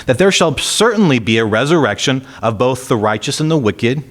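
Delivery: lifted, deliberate reading voice; scripture reading. Acted. Preacher reading Paul's defense to the church, in a lifted scripture voice. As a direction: read Paul's words out to the congregation.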